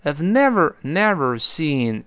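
NEVER and SEEN stressed and drawn out, I've kept weak; emphatic NEVER, long SEEN; stressed words. Shown as a demonstration. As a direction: lean hard on never and seen. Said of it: "这几个字要重读了".

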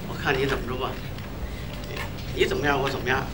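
soft, low private aside; scheming to himself. Acted. Copycat watching his rival at the next table, quiet scheming. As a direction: think it aloud under your breath.

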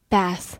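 bath with the American short a, as in cat; American pronunciation. Shown as a demonstration. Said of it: "美式发音读作". (bath用美式发音，元音同cat)

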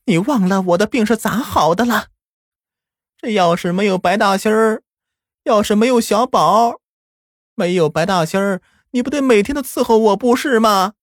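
stern. A narrator's reading. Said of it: "奶奶却厉声地说道".

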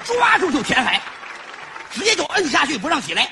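excited. Acted. Acting out drowning traitor.

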